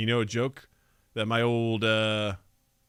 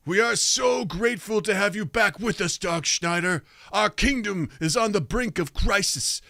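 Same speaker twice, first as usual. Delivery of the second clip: pleading minister; 4 semitones higher than usual. Acted. Minister pleads with Dark Schneider.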